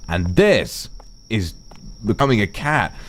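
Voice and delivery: slow, drawn-out dramatic transformation; slow dramatic build. Shown as a demonstration. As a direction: draw it out like a power-up. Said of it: "go Super Saiyan".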